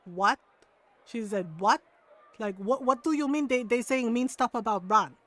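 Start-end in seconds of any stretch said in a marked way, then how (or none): 0.0-0.4 sharp, loud rising "what"; retold mom turning indignant in one word; sudden change of tone. Mom hearing they were rude about Ron, tone suddenly changed. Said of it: "tone in her voice changed". 1.6-5.2 sudden change of tone. Retold or imitated. Mom hearing they said mean stuff about Ron, tone suddenly changed. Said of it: "tone in her voice changed".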